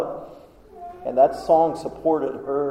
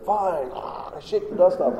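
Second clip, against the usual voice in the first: mock dismissive; 4 semitones higher, 4 dB quieter, slower than usual. Dismissing people who won't listen.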